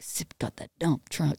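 quoted low and quiet, through a laugh; mock low dude voice. Imitating Hayes's line to the group, low and quiet. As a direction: drop into his voice for the line. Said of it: "says it like that".

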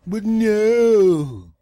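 loud, high, falling wail; comic outraged groan; exasperated lament. Acted. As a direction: draw out the refusal in mock despair.

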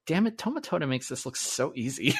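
soft, laughing mock complaint; laughing frustration. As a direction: laugh it out, half envious. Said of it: "all I was thinking as I was doing was like".

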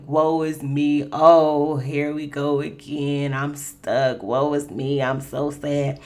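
slow, drawn-out pity-party moan; woe is me. Retold or imitated. Praying to the Lord stuck in the elevator, wallowing and slow. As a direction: wallow in it, half-mocking yourself. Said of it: "It was like".

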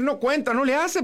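imitando a la gente, más agudo y burlón; burla despectiva. Retold or imitated. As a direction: suelta el "no cuenta" con desdén fingido. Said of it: "te van a decir". (remedando a los que descartan la pretemporada, en tono burlón)

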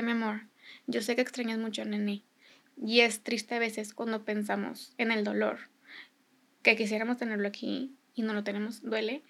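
soft, measured bedtime talk; tender, unhurried and hushed; gentle consoling. Retold or imitated. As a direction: console a little child quietly. Voices husband comforting child at bedtime.

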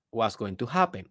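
ordinary delivery

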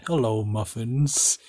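slow, lightly suave greeting; a hint of a smooth charmer, drawn out; Bad Boy Halo suave voice. Retelling a creator's greeting, slow mock-suave voice. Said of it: "like, a suave voice".

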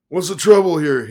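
a loud, high croak of a demand. A narrator's reading. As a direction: croak it out loudly, suddenly alarmed. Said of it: "he croaked".

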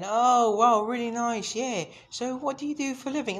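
high, bright-eyed fake enthusiasm; mock eager presenter. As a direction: gush like a cheesy interviewer. Mocking a podcast presenter's chatter.

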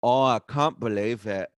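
lightly mocking a dramatic lament. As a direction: imitate someone being overdramatic. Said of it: "it was just so, so dramatic".

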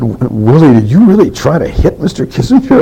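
a light impression of his surprised mother, voice lifted high; imitated mother.

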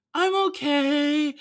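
tiny high drawn-out baby-voiced reply; mock-awkward high little voice; awkward, childish mumbling. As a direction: stretch it out high, like a shy child. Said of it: "she's speaking like this".

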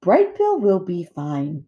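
slow, measured friendliness; friendly robot voice. A narrator's reading. Robot mother reassuring the otters, friendly. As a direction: reassure them pleasantly, taking your time. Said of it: "using a friendly voice".

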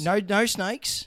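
a slow, drawn-out no. Acted. Host jokingly repeats the snake ban, slow and drawn out. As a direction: stretch each word slowly.

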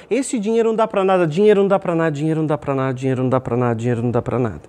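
mock griping that runs down like a broken record; repetitive complaining. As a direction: grumble it over and over, fading down. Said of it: "reclamar do preço de tudo".

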